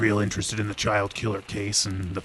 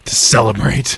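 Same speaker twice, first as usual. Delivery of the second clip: cheerful; 10 dB louder than usual. Acted. Detective heading off to drink.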